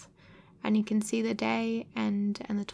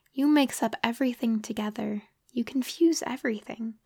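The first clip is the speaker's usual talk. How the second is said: angry. Acted. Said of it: "He was really very angry".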